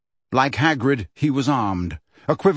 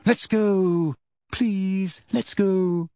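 put-on high, pleading girl's voice; terrified, high-pitched; 6 semitones higher, much slower than usual. A narrator's reading. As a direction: beg to leave in fear. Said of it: "in a high-pitched and terrified voice".

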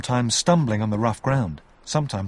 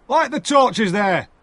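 higher, louder slow command; shouted order; 11 semitones higher, 5 dB louder, slower than usual. Acted. The sergeant orders the soldiers, a loud slow shout. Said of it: "he shouted to the soldiers".

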